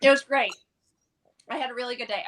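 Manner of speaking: talking around an ice cube; words blurred by ice in the mouth. Real, not acted. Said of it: "I have an ice cube in my mouth".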